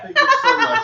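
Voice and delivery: high, laughing thank you. Real, not acted. Overcome, thanking again loudly.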